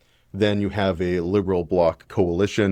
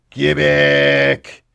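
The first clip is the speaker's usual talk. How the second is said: a higher, louder playful shout of the one word; mock rallying cry; 7 semitones higher, 6 dB louder than usual. Vlogger mimicking Blanchet's debate catchphrase, mock rallying cry. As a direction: belt it out like a team chant.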